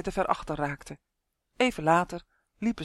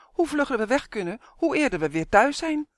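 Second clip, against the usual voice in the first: cross urging, pitched up; impatient, high-pitched nagging; angry call; 7 semitones higher, 4 dB louder than usual. A narrator's reading. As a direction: hurry him along crossly. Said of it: "riep ze kwaad".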